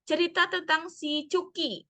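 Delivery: put-on a kid eager to tell mum something; a hint of an excited little girl; eager child. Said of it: "cerita-cerita lucu dari seorang anak".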